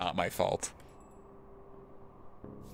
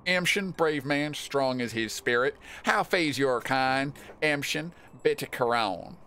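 raised, drawn-out ceremonial character voice; declaimed greeting; 3 semitones higher, 4 dB louder, slower than usual. Acted. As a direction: hail a brave man with slow, proclaimed phrases. Second, declaimed take of greeting.

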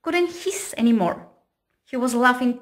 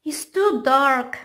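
scared; 2 semitones higher, 5 dB louder than usual. Acted. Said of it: "Triangle was afraid of the dark".

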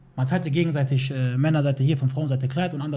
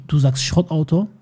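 louder, slower "Schrottauto" rising at the end; indignant repeat; 4 dB louder, slower than usual. Retold or imitated. Husband throwing the wife's word back at her, loud and indignant.

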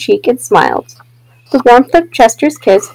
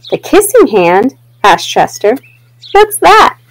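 put-on eager child. Chester asks eagerly.

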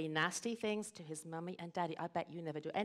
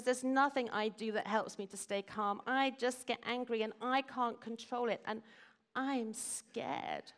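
put-on higher, exasperated child's complaint; upset boy protesting; 5 semitones higher than usual. Simon tells parents nothing helps him, exasperated protest. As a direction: plead helplessly as a storybook boy.

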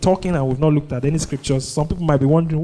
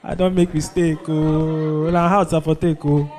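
mock excited boast. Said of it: "you're like".

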